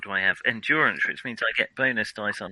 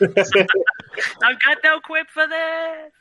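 mock exasperation; 5 dB louder, much slower than usual. Exaggerated mock exclamation.

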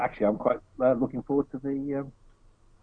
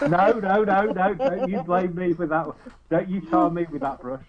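protest; 4 semitones higher, 3 dB louder than usual. Real, not acted. Protests being blamed.

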